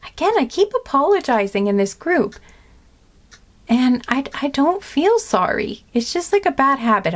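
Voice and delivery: tearful. Real, not acted. Tearful vlogger admitting her apology habit, high and teary. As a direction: speak through fresh tears. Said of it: "I'm crying 'cause I care".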